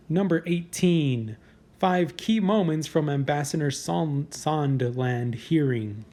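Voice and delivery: slow, deliberate countdown announcer read; drawn-out headline announcement. Acted. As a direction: announce the entry like a list show host. Reads list headline.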